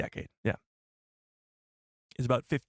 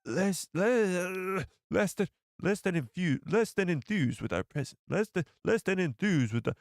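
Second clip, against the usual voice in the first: raspy voice; 5 semitones higher than usual. Retold or imitated. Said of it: "he has got a very raspy voice".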